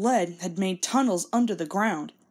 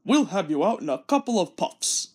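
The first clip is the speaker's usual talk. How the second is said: lightly voiced confident big engine; Gordon voice. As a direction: reassure the small engine. Gordon reassures Thomas.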